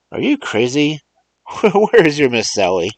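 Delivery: high and loud, brusque and irritated; impatient Mars John. Acted. Mars John scolds Remus down the phone, impatient. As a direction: snap at the old man to hurry.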